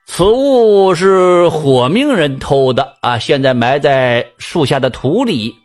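slow, solemn mock-mystic pronouncement; lightly voiced sham diviner, drawn out; pompous fortune teller. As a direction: intone it slowly like a fake sage reading fate. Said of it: "装模作样的掐指算了算".

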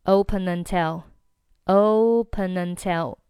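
"open until" run together as ope-nuntil; slow, linked "open until"; consonant-vowel linking. Shown as a demonstration. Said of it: "构成了一个辅元连读".

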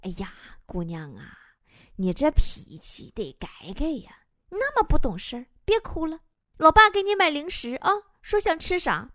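dad soothing his upset daughter, mildly coaxing; consoling dad. Acted. Dad comforts crying daughter after row with mom, consoling. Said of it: "老爸过来安慰我说".

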